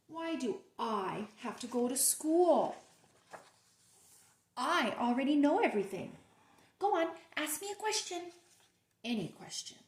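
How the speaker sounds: a hint of a boastful pigeon; cocky pigeon. Teacher voicing the pigeon for her class, mildly boastful. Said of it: "he says".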